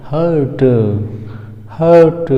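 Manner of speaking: हर्ट with a long central vowel and silent r; correct pronunciation. Shown as a demonstration. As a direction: say हर्ट, neither हट nor हार्ट. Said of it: "हट भी नहीं ... हार्ट भी नहीं".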